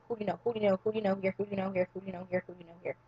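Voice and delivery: retold pestering, softening with each repeat; repetitive pestering. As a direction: mimic a crowd's nagging question, fading out. Everyone repeatedly pestering her.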